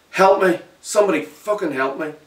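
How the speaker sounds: loud high cry for help; wounded boy screaming for help; desperate scream. Acted. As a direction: scream into the empty alley. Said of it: "I screamed".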